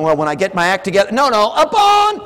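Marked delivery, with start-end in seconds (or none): 1.1-2.2 high, loud, slow upon; preacher's emphatic shout; shouted correction. Real, not acted. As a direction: hammer the word upon.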